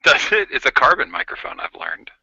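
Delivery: talking through a vintage hotel phone; gritty early microphone. Real, not acted. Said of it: "Oh, it sounds great".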